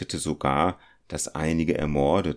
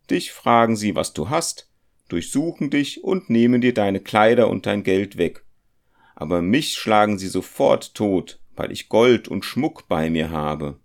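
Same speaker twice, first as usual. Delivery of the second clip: put-on higher, anxious young man blaming his companion; fearful young goldsmith; 4 semitones higher, 6 dB louder than usual. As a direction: plead and blame, pitched up and tense. Felix, the goldsmith, voiced in the story. (ängstlicher junger Goldschmied, höher und vorwurfsvoll)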